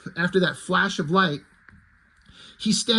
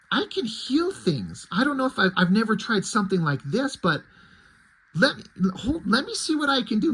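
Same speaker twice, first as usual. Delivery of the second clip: a hint of a hopeful young heroine, pitched up; She-Ra voiced higher; 5 semitones higher than usual. She-Ra to Fisto, offering to try healing, higher voice.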